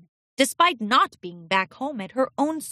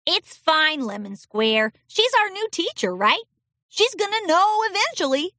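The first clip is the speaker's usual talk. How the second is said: high, easygoing colt; young colt voice; 8 semitones higher than usual. A narrator's reading. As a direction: reassure his friend. Rainy Air answers.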